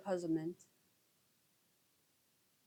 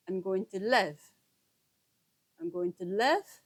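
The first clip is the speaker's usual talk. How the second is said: louder, building resolve; defiant vow; 4 semitones higher, 4 dB louder than usual. Retold or imitated. Teen vowing to repay her parents, louder and defiant. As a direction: swear it with rising force.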